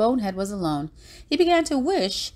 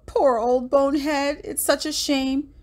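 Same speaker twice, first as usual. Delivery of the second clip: tag; 8 semitones higher than usual. A narrator's reading. Friends mourn Bonehead in the story.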